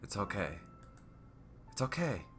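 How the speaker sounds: soft, soothing near-whisper; Sayori. Acted. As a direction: hush it gently to comfort a friend. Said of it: "Sayori whispers in a soothing voice".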